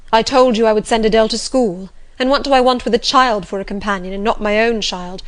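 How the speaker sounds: mildly exasperated master's retort; impatient rebuke. Acted. Master objects to taking the child as companion, impatient. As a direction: push back with some impatience.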